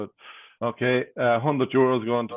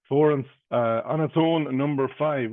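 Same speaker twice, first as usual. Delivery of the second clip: bingo caller; 3 semitones higher than usual. Acted. Calls bingo numbers.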